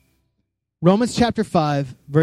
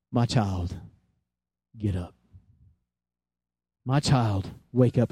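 low, soft, hushed call; gentle voice; 7 semitones lower, 7 dB quieter than usual. Retold or imitated. Jesus to the dead girl, gently waking her. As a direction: softly rouse a sleeping child. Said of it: "and a voice said this".

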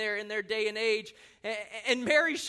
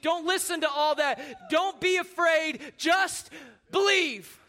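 urgent reassurance; 4 semitones higher, 4 dB louder than usual. Acted. Jesus reassures the father.

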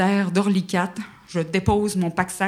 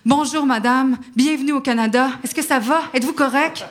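higher, sweet welcoming agent voice; imagined caring agents; 5 semitones higher than usual. Pretend. Embassy agents greeting her in her fantasy, sweetly caring. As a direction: gush like an eager rescuer. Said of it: "c'est comment je m'imaginais".

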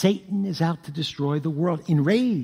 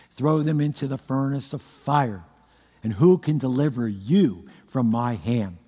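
raging king; 6 semitones lower than usual. Retold or imitated. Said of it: "Nebuchadnezzar loses his mind, and he says".

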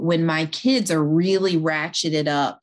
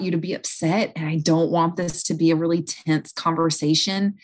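quiet and calm. Shown as a demonstration. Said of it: "go to them quiet and calm and say".

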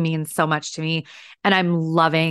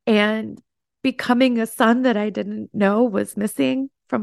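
higher voice, holding back tears; fighting tears while thanking him; choked up; 3 semitones higher than usual. Real, not acted. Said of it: "Didn't know I was gonna get so emotional".

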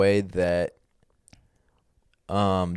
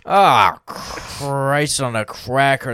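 put-on wholesome 1950s kid; 3 semitones higher, 3 dB louder, slower than usual. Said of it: "That's how Mormons play".

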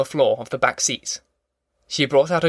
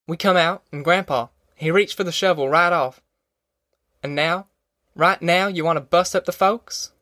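higher-pitched country mother, earnest; insistent Ma; 4 semitones higher than usual. Acted. Ma warning against busting up the folks, higher-pitched insistence. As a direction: plead firmly to hold them together. Ma pleads for family unity.

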